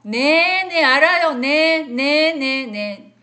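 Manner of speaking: loud, curt and impatient on the phone; rude phone answer. Retold or imitated. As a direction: bark at the unknown caller loudly. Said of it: "그렇게 받으시면 안 돼요". (전화를 퉁명스럽고 크게 받듯)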